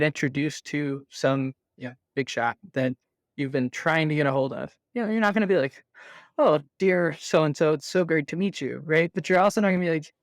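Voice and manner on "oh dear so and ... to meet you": mock-formal, over-polite greeting; lightly hammed-up stuffy politeness. Sales rep meeting a big shot at a conference, mock formal. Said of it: "overly stuffy and, like, formal".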